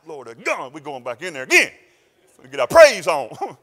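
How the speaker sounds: mock militant church rally; fired-up church folk. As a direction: call the troops to praise. Congregation quoted as fired up.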